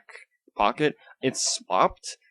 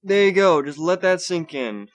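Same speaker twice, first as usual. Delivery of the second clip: higher, loud, then slowing; hyped sign-off; 8 semitones higher, 5 dB louder than usual. Shown as a demonstration. Vlogger ending his hype bit, high and slowing. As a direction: let the hype settle slowly. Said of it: "I'm trying to do this enthusiastically".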